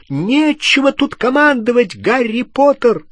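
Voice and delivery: high, loud indignant rebuke; angry yell. A narrator's reading. Hermione defying Harry's orders, yelling angrily. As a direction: yell it right back at him. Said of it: "крикнула она".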